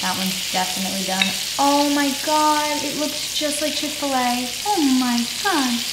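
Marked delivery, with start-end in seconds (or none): 1.6-5.8 amazed. Real, not acted. Amazed at the nuggets.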